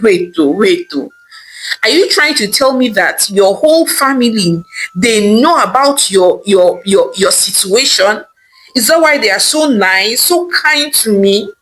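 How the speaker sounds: shocked wife realising the family knew; still in shock. Acted. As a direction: reel from the news, then break. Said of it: "still in shock".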